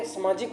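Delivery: सामाजिक with first vowel short, as समाजिक. Shown as a demonstration. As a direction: say a quick "sa" opening सामाजिक. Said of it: "बिल्कुल सामाजिक होता है".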